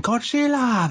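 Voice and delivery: high yelled monster cry; Godzilla roar impression. Friend retelling a sitcom scene, high mock Godzilla yell. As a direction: howl it like the characters faking Godzilla. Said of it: "They're all doing Godzilla impressions".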